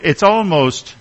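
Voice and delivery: "almost" stressed as a careful qualifier. Real, not acted. Preacher hedging a remark about kids, stressing "almost". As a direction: lean on the word "almost", drawn out. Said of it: "I have to emphasize the word almost".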